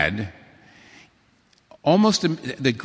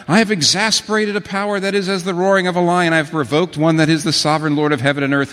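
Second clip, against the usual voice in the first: crying out in dread; 4 semitones higher, 5 dB louder than usual. Retold or imitated. Terrified sinner quoted crying out.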